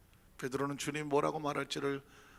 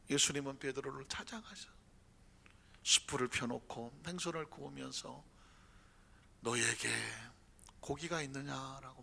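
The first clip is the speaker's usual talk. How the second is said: hushed storytelling; 4 semitones lower, 8 dB quieter than usual. A narrator's reading.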